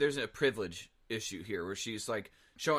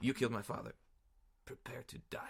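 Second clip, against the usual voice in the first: dramatic put-on swordsman voice, quieter; 7 dB quieter than usual. Showing how the Inigo Montoya line must be said: Inigo Montoya voice. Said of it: "Channeling Anthony there".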